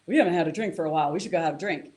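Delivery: the nucleus accumbens tempting him, excited and fast; eager craving. Retold or imitated. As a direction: jump at the thought of a drink. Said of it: "the nucleus accumbens goes".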